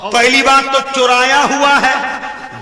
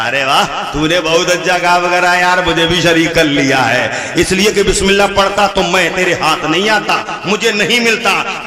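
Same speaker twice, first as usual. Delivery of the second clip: gloating Satan; 6 semitones lower than usual. Acted.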